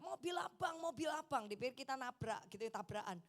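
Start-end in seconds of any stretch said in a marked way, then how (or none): 0.0-1.5 retold shout. Bystander calling after the departing car, mock yell. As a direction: imitate someone calling out in alarm. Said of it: "ada yang teriak".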